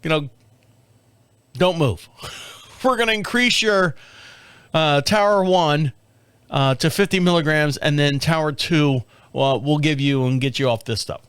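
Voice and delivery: put-on a lightly done Indian accent doctor voice; mock Indian accent. Comic imitating the heart doctor with a strong Indian accent. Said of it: "strong Indian accent".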